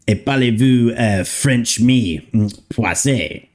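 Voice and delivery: fake French. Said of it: "All of that was not exactly French".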